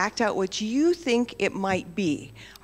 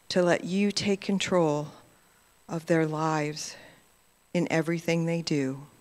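gentle, even prayer voice; 4 semitones lower than usual. Acted. Leader praying for the children's blessing, in a calm prayer voice. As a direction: pray over the children calmly.

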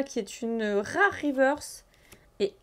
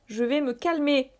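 "Je vais me calmer" through a laugh; giggling, not calm at all; "Je vais me calmer" said laughing in a playful voice; 2 semitones higher than usual. Real, not acted.

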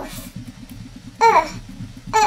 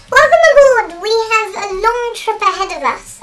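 train conductor voice; 3 semitones higher, 6 dB louder than usual. Pretend. Train conductor announcement in game.

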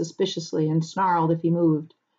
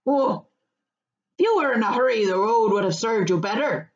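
higher, rustic voice offering advice; country farmer, good-natured; 3 semitones higher than usual. Acted. Farmer advising Pippin about the road, good-natured. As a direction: answer as an easygoing countryman.

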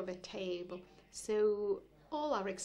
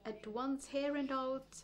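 measured, continuous literary recital; deliberate poetry-reading cadence; poem reading. Acted. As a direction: read the poem aloud, phrase by phrase. Reads a poem aloud.

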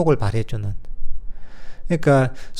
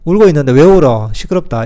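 louder irritated scold, then curt; mock scolding; 6 dB louder than usual. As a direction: tell the crying child off, fed up. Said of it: "이러면 안 되잖아요".

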